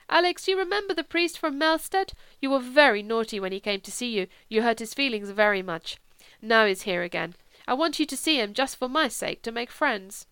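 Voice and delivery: lightly voiced coaxing, high at first; gently chide, then coax a sick man; coaxing Kara. Kara reports coaxing Alex.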